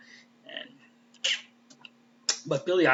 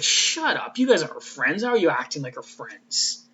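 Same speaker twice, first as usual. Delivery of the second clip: angry snap; 2 semitones higher, 4 dB louder than usual. Retold or imitated. Spike cutting off the Scoobies, sharp angry retort. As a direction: cut them off sharply. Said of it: "cusses them all out".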